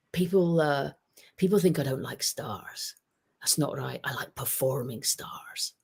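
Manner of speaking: put-on light, half-hearted Scottish accent, slowing at the end; quoting the Scottish manager in a mild Scottish accent; a hint of Scottish accent for a manager's words. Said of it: "with the perfect Scottish accent".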